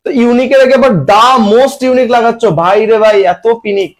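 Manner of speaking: playfully exasperated teacher; mock exasperation. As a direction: scold the class in mock disbelief. Teacher mock-scolds an absurd mistake.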